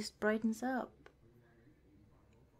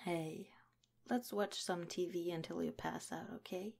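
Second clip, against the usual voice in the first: soft whisper; 3 semitones lower, 5 dB quieter than usual. Acted. Partner dozing off on couch.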